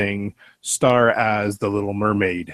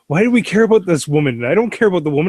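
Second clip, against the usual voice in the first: Gollum as Dopey; 8 semitones higher, 3 dB louder than usual. Acted. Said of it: "he'd be like Dopey".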